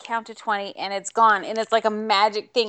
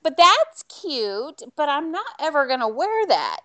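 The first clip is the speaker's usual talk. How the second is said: apologetic refusal; 5 semitones higher than usual. Retold or imitated.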